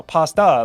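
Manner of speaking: "pasta" as PAH-stah; American broad A. Shown as a demonstration. Insisting on the American way, "pasta" as PAH-stah. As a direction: open AH as in father in "pasta". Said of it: "that's how we pronounce it".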